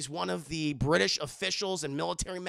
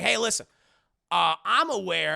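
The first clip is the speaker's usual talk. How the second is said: Maharaja voice; 6 dB louder than usual. Retold or imitated. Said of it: "and he talks like this".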